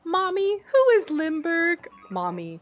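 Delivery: acted parent-child skit. Acted mother and child voices.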